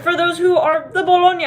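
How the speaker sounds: mock Italian on "Bologna"; Italian accent. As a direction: put on a joking Italian lilt for "Bologna". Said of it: "with an Italian accent".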